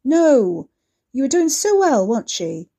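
loud furious snarl; angry growl. Acted. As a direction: bark it, cutting her off. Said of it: "he growled at her".

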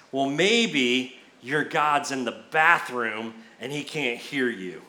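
drawn-out deadpan dig; deadpan taunt. Retold or imitated. Prophet's taunt, delivered deadpan for laughs.

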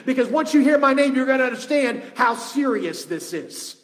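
loud, high, urgent messenger's declaration; Gabriel. Acted. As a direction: impress on him how serious this is. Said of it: "Gabriel saying".

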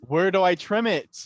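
loud, high baffled outcry; laughing, hammed-up confusion; mock bewilderment. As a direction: exclaim it in comic exasperation, laughing. Mock bewildered quote amid laughter.

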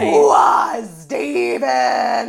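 loud rasping hammed-up wail; mock anguished shout. Widow crying out for Steven, loud mock wail. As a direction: bellow it at the heavens in fake grief.

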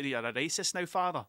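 put-on light Father Ted-style Irish accent. Comedian imitating Father Ted to friends, Irish accent. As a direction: quote the sitcom in an Irish accent. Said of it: "I start doing an Irish accent".

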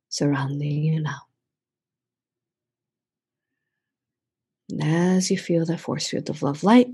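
unhurried meditation leader, lingering on the phrases; guided meditation. Real, not acted. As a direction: invite listeners to settle in and call on protection.

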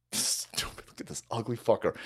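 muttered aside. Real, not acted. Host sneering at a photo, muttered low. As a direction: mutter it under the breath.

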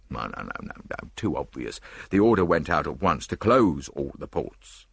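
low, lightly voiced dismissive inspector; Japp dismissive. Japp rejects the tall detective's seaport theory, dismissively. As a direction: brush the idea aside.

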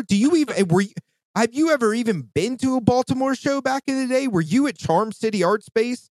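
a hint of a pretend tirade; indignant rant. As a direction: grill them with scornful questions. Ranting at imagined person.

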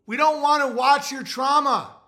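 mock-annoyed, dismissive brush-off; dismissive mock crowd. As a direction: act out a bored crowd telling them to shut up. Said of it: "everyone's like".

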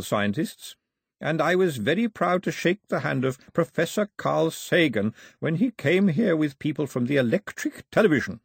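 a hint of an old man, chatty and fond; lightly voiced old man. Old man chatting to two children, lightly voiced.

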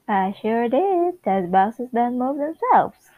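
animated amateur read of a sitcom; lightly acted neighborly sitcom banter; sitcom script read-aloud. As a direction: act out both sides of chatty dialogue.

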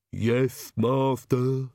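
slightly lisped, deferential servant voice; lisping henchman answering his master; Igor, lisping servant. Acted. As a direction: lisp the word master, obediently.

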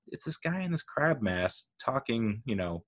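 soft, puzzled aside; baffled self-questioning. Retold or imitated. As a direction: wonder at yourself quietly. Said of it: "And you're like".

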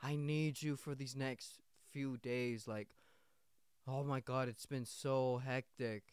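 slow, sighing plea; mock stressed manager. Manager needing employee for next few days, mock stressed. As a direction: lightly put on a harried boss, dragging it out. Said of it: "She's like".

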